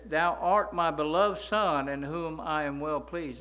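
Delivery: loud, slow, measured proclamation; voice of God. Retold or imitated. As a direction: speak as the Father from heaven, slowly. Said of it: "he says".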